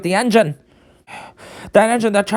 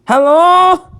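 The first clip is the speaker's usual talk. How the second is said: much higher, loud call; shouting into the phone; 11 semitones higher, 7 dB louder than usual. Acted. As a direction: yell hello into a dead line. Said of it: "This is a really bad line".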